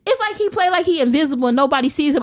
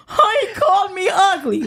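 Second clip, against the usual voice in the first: mock crying; 4 semitones higher than usual. Mock crying about comments.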